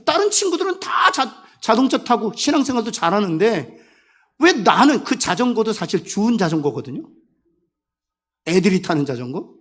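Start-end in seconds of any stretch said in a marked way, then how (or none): none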